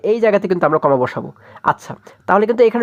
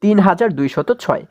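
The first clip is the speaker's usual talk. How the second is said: slow number reading; slower than usual. Shown as a demonstration. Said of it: "আমরা এখন এটিকে কীভাবে পড়তে পারি".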